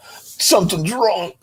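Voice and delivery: worried inner voice. Retold or imitated. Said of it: "drove fifty miles going".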